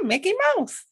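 very high squeaky cartoon mouse; Mickey Mouse voice.

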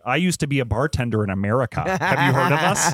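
lightly put-on broken-German delivery; mock broken German. American tourist chatting up a Frankfurt bartender, mock broken German. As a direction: imitate halting attempts at talking German. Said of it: "in my broken German".

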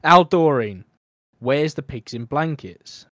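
lightly imitated Northern English dad, loud opening call. Dad asking Doreen about Christmas dinner, Northern English accent. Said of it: "It's a Northern thing".

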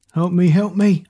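small, strained cry for help; little voice crying out. A narrator's reading. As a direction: call out as a tiny character. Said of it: "a little voice cried out".

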